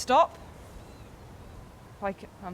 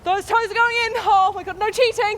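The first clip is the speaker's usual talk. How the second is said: gasping yelps, high and loud; shrieking from the icy sea; shock of cold water; 12 semitones higher, 11 dB louder, slower than usual. Real, not acted.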